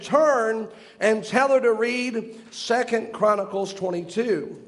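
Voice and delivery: slow, deliberate quoted command; solemn divine command. Retold or imitated. Voice from heaven instructing the man washing his car, slow and solemn. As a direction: spell out the instruction slowly, with weight.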